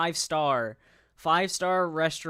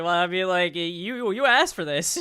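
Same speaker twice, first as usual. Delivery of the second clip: mock reluctant reply, rising in pitch; imitating Diesel; 3 semitones higher, 6 dB louder than usual. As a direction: voice someone else's half-laughing excuse. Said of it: "Diesel is like".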